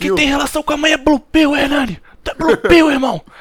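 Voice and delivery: mock wild, manic shout. Retelling how a drunk guest yelled at the interviewer: imitating someone yelling like a madman. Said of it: "começava a gritar igual um maluco".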